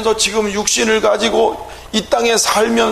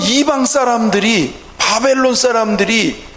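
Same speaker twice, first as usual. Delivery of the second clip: normal talking voice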